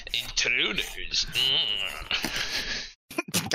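slow eerie whisper, drawn out; slow stone monotone. Acted. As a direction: whisper it like a voice in the head. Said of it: "It's like".

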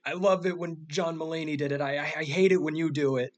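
mock yell. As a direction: imitate a complaining heckler without real volume. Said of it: "someone from the back you hear distinctly yells".

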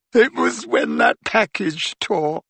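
high, slow, tearful account; sobbing. A narrator's reading. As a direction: sob out the explanation. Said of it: "sobbed Leanne".

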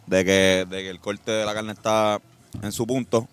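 mock sportscaster calling the action; play-by-play narration. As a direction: narrate his bite like a live match. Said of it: "yo narro tu, tu travesía".

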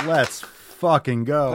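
slow, drawn-out cheer; hyped cheer. Real, not acted. Host still cheering the caller, drawn-out cheer. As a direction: stretch it like a victory chant.

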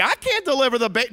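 loud, fast refusal; panicked protest. Retold or imitated. Joseph protesting to Mary he can't deliver, loud and fast. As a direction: push back in alarm.

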